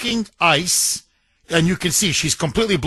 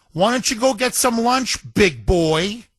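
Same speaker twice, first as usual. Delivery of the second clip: trash-talking; 2 semitones higher than usual. Retold or imitated. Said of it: "She's trash-talking him".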